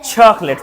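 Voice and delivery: चॉकलेट with छ at the start; falling model word, breathy CH; aspirated English CH. Shown as a demonstration. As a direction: puff the CH in चॉकलेट. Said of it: "छ बोलेंगे".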